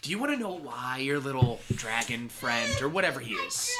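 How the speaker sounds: teasing, with a laugh at the end; taunting villain. Acted. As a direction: dangle the secret over them. Villain teases secret.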